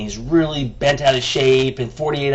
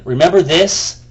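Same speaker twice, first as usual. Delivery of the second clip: mock email retort, raised and angry; angry comeback; 2 semitones higher, 5 dB louder than usual. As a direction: spit it back at him. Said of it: "writing him back and going".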